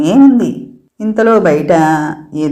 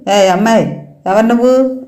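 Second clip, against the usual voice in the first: higher, pressing interrogation; a mother grilling a stranger, insistent and raised; probing questions; 4 semitones higher than usual. Acted. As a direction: keep jabbing her with questions. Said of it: "గుచ్చి గుచ్చి అడిగింది".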